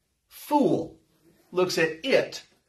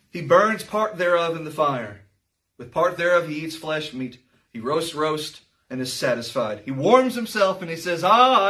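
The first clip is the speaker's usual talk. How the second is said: scripture reading; 3 semitones lower than usual. Acted. Preacher reading Isaiah to the congregation, solemn. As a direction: read the verse with gravity.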